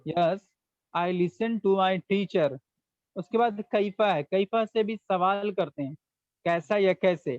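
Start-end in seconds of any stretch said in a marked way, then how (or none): 0.1-2.6 very slow, each word laid out for students; slow model sentence. Shown as a demonstration. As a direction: dictate it slowly for the class to repeat. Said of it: "teacher repeats model sentence slowly". (धीरे-धीरे, साफ़ बोलकर)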